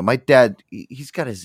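usual speaking voice

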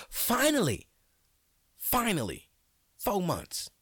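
high, loud cry of relief; finally, after months of waiting; high excited shout of relief. Real, not acted. Insurance finally paid.

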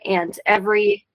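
echoing like a big room; big hall echo. Real, not acted. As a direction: voice echoing on the call line. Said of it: "sorry, I'm echoing a little".

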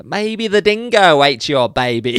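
slow, lightly voiced dopey Elaine; a hint of drowsy drug haze; mock drugged Elaine. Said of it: "Elaine's just high on pain medication".

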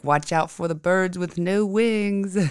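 slow, deadpan bellhop warning; dry bellhop joke. Retold or imitated. Bellhop joking about pigeons, slow and deadpan. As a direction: deliver the joke slowly, dry. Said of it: "He's like".

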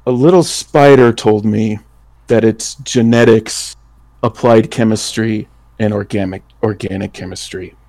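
sly taunting reveal. Acted. Mark taunting the doctor, sly and fading. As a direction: drop it teasingly, trailing off. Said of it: "Mark will say".

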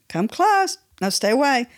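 high come close then a cool no; beckon, then push away; a hint of inner tug-of-war; mock push-pull. Acting her own push-pull.

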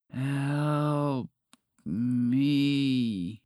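soft, slow, weary dragon plea; barely able to speak. Acted. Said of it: "it said softly and slowly".

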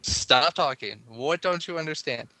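loud exasperated "Oh my God", then slow firm scolding; exasperated outburst. Retold or imitated. Parent at night scolding kids who won't sleep, exasperated.

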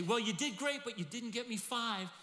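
high, loud, condescending hedging; mock lukewarm master; grudging praise. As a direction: let him down with faint praise. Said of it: "he doesn't say".

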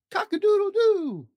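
very high, loud crowing cock-a-doodle-doo; rooster crow. Acted. Dad reading Seuss to a child, loud rooster crow. The noises repeated.

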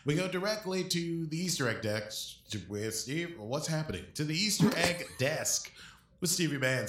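bright TV anchor throw to a reporter; hammed-up newscaster welcome; news anchor. Mock news anchor intro.

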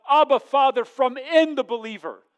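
loud, high-pitched fervent cry. Retold or imitated. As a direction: proclaim it at full preaching force. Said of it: "His Spirit cries out".

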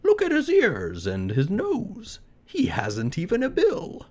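high, scornful woodpecker, slowing on the second line; high scoffing woodpecker. Acted. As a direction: scoff like a know-it-all bird. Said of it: "said a woodpecker".

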